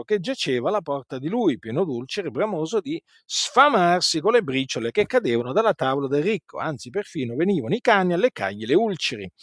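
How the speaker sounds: brisk, fast Bible reading from the pulpit; preacher reading the rich man and Lazarus story aloud, fast; scripture reading. Acted. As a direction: read the passage out quickly, like a preacher. Reads Luke sixteen aloud.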